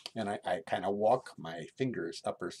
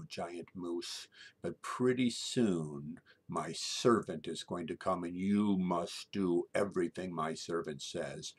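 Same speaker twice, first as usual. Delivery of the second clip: put-on commanding little girl; 5 dB louder than usual. Little girl orders giant moose before leaving, commanding. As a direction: lay down the law, word by word. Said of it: "the little girl says".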